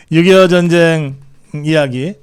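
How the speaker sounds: ordinary delivery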